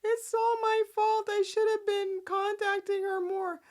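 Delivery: high hammed-up remorse; mocking Sharon. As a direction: wail the guilt in a high mock voice. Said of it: "Sharon's like".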